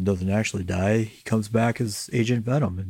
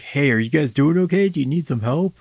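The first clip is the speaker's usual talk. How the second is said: higher, louder check-in; concerned Peter; 5 semitones higher, 4 dB louder than usual. Retold or imitated. Friend checking on a drugged-up couple, concerned. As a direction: ask like a worried friend, pitched up. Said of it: "Peter's like".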